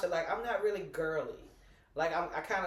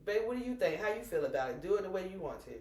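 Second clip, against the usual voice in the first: gentle coaxing; 2 semitones higher, faster than usual. Retold or imitated. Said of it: "I say".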